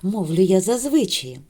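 sing-song recited greeting verse; teacher reciting a morning poem; poem recital. Acted. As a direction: recite the rhyme warmly to children.

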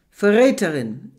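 loud shouted accusation; furious accusation. Acted. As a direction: hurl the accusation. Shaking her, yelling.

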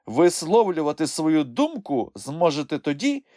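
contained, high-pitched admonishment; restrained rebuke. A narrator's reading. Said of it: "стримано зронив Хропусь".

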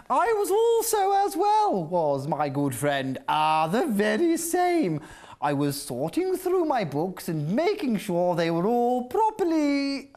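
a hint of a prim, fussy bookworm with halting pauses; mock-formal bookworm voice, not far from his own; imitating Bookie Worm. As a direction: lightly copy the bookish friend's proper talk. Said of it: "I'm just trying to talk like you".

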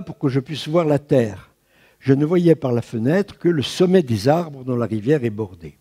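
measured literary reading of a memoir; reading aloud. Acted. Lecturer reads an eighteenth century memoir to students, measured reading voice. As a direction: read the old text with care for the class.

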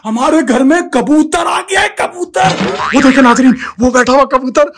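hammed-up news anchor announcing; mock reporter. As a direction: play a breathless TV reporter.

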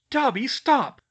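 loud, high cry to stop; urgent command. A narrator's reading. Girl to self-harming elf, urgent high shout. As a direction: call out sharply to halt him.

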